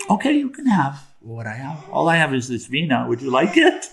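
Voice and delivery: lightly voiced obliging sage; a touch of sweet, innocent helpfulness; serene sage. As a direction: make a mild, guileless offer to a robber. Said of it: "Narada says".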